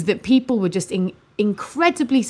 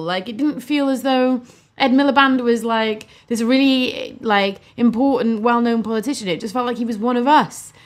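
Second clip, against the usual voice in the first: normal talking voice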